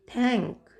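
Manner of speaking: थैंक starting with an aspirated थ. Shown as a demonstration. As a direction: teach थैंक with a clear थ at the front. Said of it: "यहाँ भी थ का sound".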